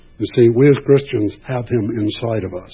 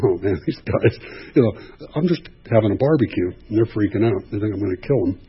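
amused Joseph. Retold or imitated. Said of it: "I think Joseph is laughing".

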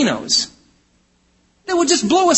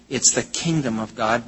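"kingdom" picked out in a low voice; stress on kingdom; 5 semitones lower, 5 dB quieter than usual. Real, not acted. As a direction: lean on the word "kingdom", low and measured. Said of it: "I emphasize the word".

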